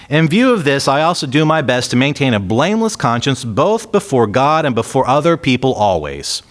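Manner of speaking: lifted, deliberate reading voice; scripture reading. Acted. Preacher reading Paul's defense to the church, in a lifted scripture voice. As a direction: read Paul's words out to the congregation.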